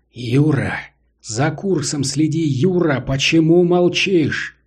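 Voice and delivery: anxious instructor calling his name; worried calling out. Acted. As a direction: call out, worried and urgent. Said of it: "Серёгин взволнованно окликнул Гагарина".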